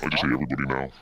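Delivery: deep, low voice; low magnetic voice. Real, not acted. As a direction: speak way down in the chest. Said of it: "Your voice is so deep".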